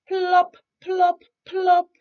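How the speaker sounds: high, loud squeaky plops; Little Bear copying the sound he heard, high and loud; Little Bear mimicking plops. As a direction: pop each plop up high like falling snow. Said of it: "said Little Bear".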